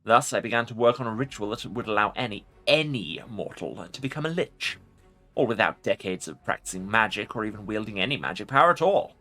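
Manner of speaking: commanding undead lich voice; ancient rasping undead king. Acted. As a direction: speak as a proud ancient lich. Lich voice in a game playthrough.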